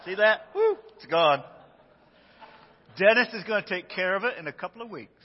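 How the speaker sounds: talking with a tooth gap; missing front teeth. Real, not acted. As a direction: speak through a missing tooth. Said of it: "my tooth just fell out".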